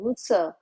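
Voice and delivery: बुत्सर with the final r silent; बुत्सर pronounced without the r. Shown as a demonstration. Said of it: "र को silent करिएगा".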